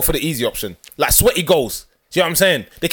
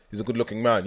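deep voice; 4 semitones lower, 6 dB quieter than usual. Shown as a demonstration. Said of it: "you have to put in a deep voice".

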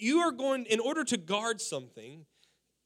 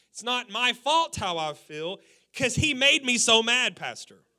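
mock excuse; 2 semitones higher, 4 dB louder than usual. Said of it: "This is the verbiage we use".

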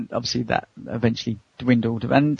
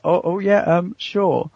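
imitating a flustered woman, a bit higher; mild mock flustered reply; 6 semitones higher, much slower than usual. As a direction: stumble over the words, caught off guard. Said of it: "she went all flustered".

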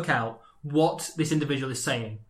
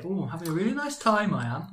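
lilting mock Welsh singsong; mock Welsh, sing-song tag; mock Welsh accent; 3 semitones higher than usual. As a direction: put on a Welsh lilt. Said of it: "they say that all the time in Wales".

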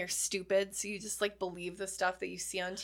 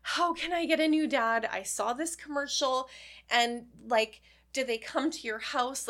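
put-on child's plea; 3 semitones higher, 4 dB louder than usual. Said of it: "I was like".

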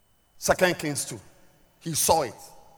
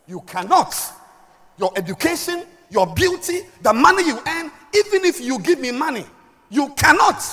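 insistent, rising preacher delivery; emphatic preaching; 12 semitones higher, 10 dB louder than usual. Acted. Parent-preacher forbidding quarrels, emphatic preaching. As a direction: lay down the law, item by item.

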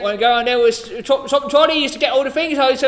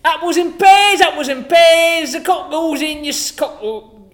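put-on London accent; 4 semitones higher than usual. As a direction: rattle off rhyming slang like a market seller. Cockney rhyming-slang bit.

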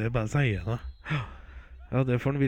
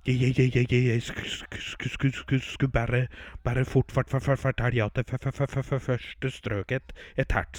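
hammed-up stammering on every word start; mock stutter. Teller voicing the frightened cowboy, mock stutter. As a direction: stumble over each syllable, imitating a scared cowboy. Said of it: "Han stammer så fælt".

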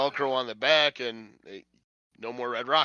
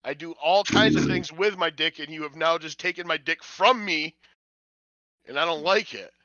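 voicing the dog; 3 semitones higher, 5 dB louder than usual. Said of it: "that's what the look on his face".

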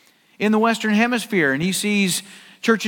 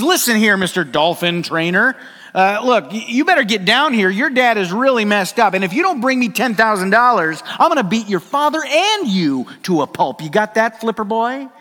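angry threat; 3 semitones higher, 3 dB louder than usual. Retold or imitated. Angry driver threatens on phone.

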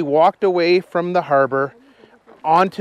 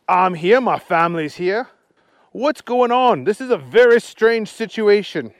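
lively puzzled Archie voice; 7 semitones higher, 5 dB louder than usual. Acted. Archie telling Agnes the town is strange, puzzled. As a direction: wonder aloud as Archie.

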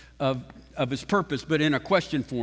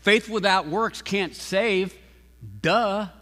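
mock obvious duh; 2 semitones higher, slower than usual. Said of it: "we would say it like this".

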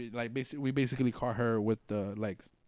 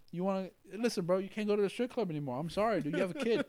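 higher, preachy mock lecture to a parent; mock scolding; 8 semitones higher than usual.

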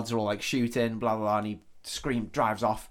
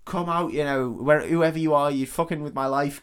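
higher-pitched mock challenge; retold outburst; 4 semitones higher, 4 dB louder than usual. Man smashing the smoke alarm, retold with mild mock fury. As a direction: imitate an angry man calling out watchers. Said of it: "he just kicks off".

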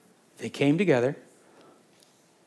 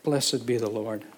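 earnest prayer. Acted. Pastor leading the congregation in earnest prayer. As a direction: pray aloud for the room.

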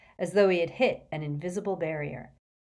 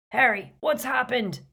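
high, loud worried call; bellowed; 7 semitones higher, 3 dB louder than usual. Acted. Hagrid asking Harry what happened, loud bellow. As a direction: bellow over the engine noise. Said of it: "bellowed Hagrid".

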